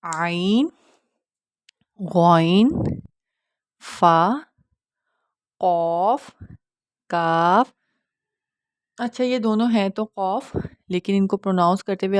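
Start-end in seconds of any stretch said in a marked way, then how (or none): 0.0-7.7 each letter from عین to کاف drawn out; slow, careful Arabic letter names; model letter pronunciation. Shown as a demonstration. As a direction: recite عین, غین, فا, قاف, کاف one by one, held. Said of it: "کس طرح سے ادا کیا جاتا ہے".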